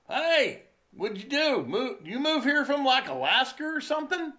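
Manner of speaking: high, loud mocking voice; mock punk taunting from his boat; mimicking punk dude. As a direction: ham up the punk's sneer. Retold punk dude's taunt.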